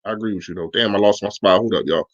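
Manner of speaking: ordinary delivery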